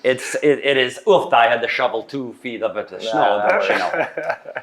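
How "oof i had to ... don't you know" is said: mock Minnesota accent. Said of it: "can you use it in a sentence".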